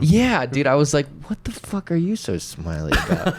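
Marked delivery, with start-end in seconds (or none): 1.3-3.4 higher, sharper mock rage; grumpy Grinch snapping at happy people; mock angry snarl. Angry at dancers.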